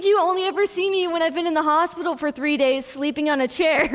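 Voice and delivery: mom laughing. Retold or imitated. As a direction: carry on the joke with laughter in the voice. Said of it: "my mom just burst out laughing".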